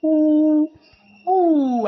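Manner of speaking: loud, high "Who?"; calling out who. Shown as a demonstration. Teacher modelling "Who?" loudly for the class. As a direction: call the word out. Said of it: "I'll do that again".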